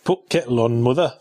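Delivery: northern English, "the" dropped; lightly hammed-up North of England mum-talk; a hint of a northern accent; mock northern English accent. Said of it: "the northern accent".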